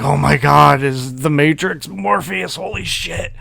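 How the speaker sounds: marvel, then drop to a secret whisper; mock awe sinking into a whisper; awed whisper. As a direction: gasp of awe fading to a hushed whisper. Awed inner thoughts, whispered ending.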